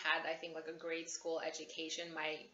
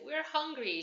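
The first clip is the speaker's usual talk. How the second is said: put-on whiny kid; 9 semitones higher, 3 dB louder than usual. Kids complaining to mom.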